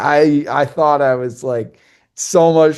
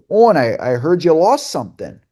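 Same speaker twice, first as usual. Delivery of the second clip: lightly imitated Western Canadian accent, pitched higher; 5 semitones higher, 4 dB louder than usual. Captain calling about the lost bag, Western Canadian accent. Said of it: "in his big Western Canadian accent".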